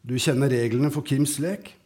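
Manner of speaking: calm, even reading of a story; story narration. A narrator's reading. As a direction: read the scene to listeners, steady and unhurried. Author reads his story aloud.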